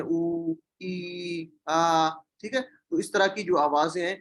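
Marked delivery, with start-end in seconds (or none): 0.0-2.1 drawn-out vowels, lightly groaned; imitated patient's moan. Shown as a demonstration. Teacher showing class sounds of a distressed patient, imitated moan. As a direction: mimic a sick person's distressed sounds. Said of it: "پریشانی کی حالت میں کچھ آوازیں نکلتی ہیں".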